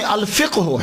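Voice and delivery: "الفقہ ہو" as al-fiq-hu; original pronunciation. Shown as a demonstration. Lecturer giving the real form, "الفقہ ہو" as al-fiq-hu. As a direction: keep the q vowelless before hu in "الفقہ ہو". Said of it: "تو اصل میں".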